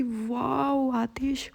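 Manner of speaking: slow, drawn-out wow of delight. Retold or imitated. Girlfriend amazed by her boyfriend, drawn-out delighted wow. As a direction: stretch the wow out, thrilled. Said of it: "full खुश हो जाती है".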